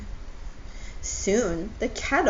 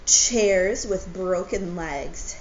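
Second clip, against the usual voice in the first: sad Owl; 5 dB louder, slower than usual. Acted. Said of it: "His eyes began to water".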